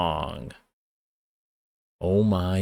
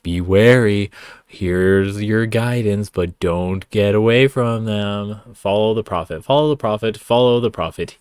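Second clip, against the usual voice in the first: a louder, mock-solemn warning; mocking preachy tone; 5 dB louder than usual. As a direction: ham up the song's warning. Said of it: "the tone is like".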